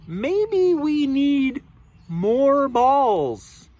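slow, drawn-out musing, lightly voiced; elephant character. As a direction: stretch it out like a pondering elephant. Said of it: "The elephant says".

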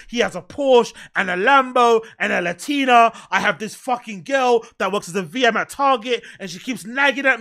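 acted envious grumbling, building into complaint; mock inner resentment. Man secretly resenting his life and friend, mock seething. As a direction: let the petty grievances spill out. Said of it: "And then deep down, they're like".

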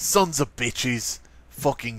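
slow mock southern grumble; lightly imitated southern accent. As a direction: curse in a put-on southern drawl. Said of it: "You're making me sound southern".

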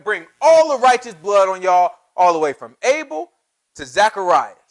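preacher speaking as God, issuing a challenge; punchy preaching in short, driven phrases; forceful preaching. Acted. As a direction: lay down a warning to the congregation. Preaches in God's voice.

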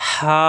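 "হা" pressed in mid-throat, held long. Shown as a demonstration. Teacher demonstrates throat letter, long pressed "হা". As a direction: press "হা" from the middle throat and stretch it. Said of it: "কণ্ঠনালীর মাঝখানে চাপ দিয়ে এক আলিফ টান".

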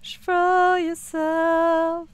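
mock motivational guru. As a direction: preach it like a self-help coach. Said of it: "I'm sorry. I had to".

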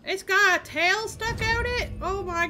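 surprised. Real, not acted. Streamer spotting a tail on a disguised tanuki, surprised. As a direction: disbelief at what you see.

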